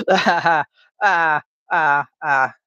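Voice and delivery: staccato laugh trailing into spaced "ah"s; laugh, then let out separate "ah, ah" notes. Real, not acted. Streamer amused while drawing, staccato laugh.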